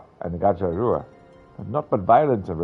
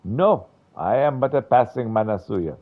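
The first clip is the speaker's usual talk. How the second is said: fearful cry; 5 semitones higher, 6 dB louder than usual. Acted. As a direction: cry out in theatrical dread. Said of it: "I heard my own voice cry out".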